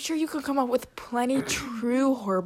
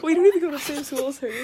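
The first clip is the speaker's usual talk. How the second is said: loud outburst; 5 semitones higher, 10 dB louder, faster than usual. Real, not acted. Blurted, then repeated when asked.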